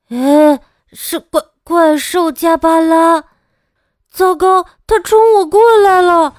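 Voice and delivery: put-on high, loud panicked child shouting; a child's loud cry of alarm. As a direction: yell in fright as the monster charges. Child sees the monster coming.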